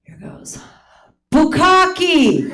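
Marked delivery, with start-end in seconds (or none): 1.3-2.5 gleeful word. Shown as a demonstration. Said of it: "so I'm gonna say it once".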